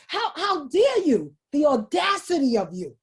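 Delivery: mock outrage, falling away at the end; scolding inner voice. Inner critic rebuking the would-be voice, mildly indignant. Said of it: "And then there's this other voice".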